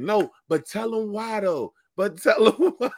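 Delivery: high, slow mimicked sister, breaking into laughter; heckling sister. Sister calling out as a comic bombs, high imitated heckle. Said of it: "and she was like".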